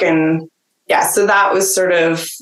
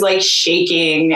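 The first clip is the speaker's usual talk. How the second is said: ordinary talk, nothing marked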